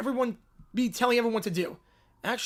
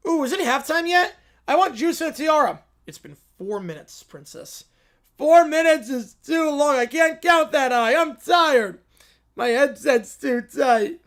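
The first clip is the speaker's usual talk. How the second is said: put-on whiny bored kids; 4 dB louder than usual. Bored kids whining to Schlereth for halftime. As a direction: whine and complain, dragging it out. Princess whines during game.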